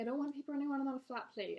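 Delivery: fussy diner in put-on British accent. Regular tells server about his plate, mock British accent. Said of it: "he has a British accent".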